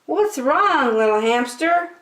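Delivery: high, kind bunny voice; Bunny's voice. A narrator's reading. Bunny asks the crying hamster, high and kind. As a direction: ask gently like a little bunny. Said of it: "asked Bunny".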